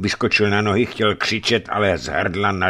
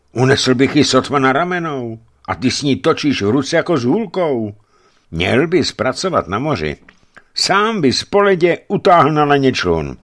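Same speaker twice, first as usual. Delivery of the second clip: raised, louder amazed praise; 8 semitones higher, 5 dB louder than usual. A narrator's reading. Savelij admires the giant's club, higher and louder in amazement. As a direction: marvel at his strength aloud. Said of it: "udiveně hekl".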